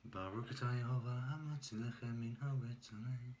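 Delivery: Hebrew blessing recited in a non-native accent; terrible Hebrew accent. Real, not acted. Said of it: "at my terrible accent".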